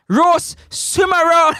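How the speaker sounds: shouted punchline, pitch a touch up; mock-announcing the fish, shouted; playful shout. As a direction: call it out like a street cry. Joking chant about roasted fish.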